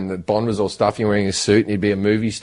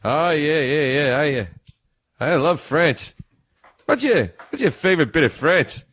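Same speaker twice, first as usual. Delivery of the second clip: higher, chirpy Cliff Clavin voice; Cliff impression again; 4 semitones higher, slower than usual. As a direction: keep the small talk going eagerly. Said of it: "one of your best impressions".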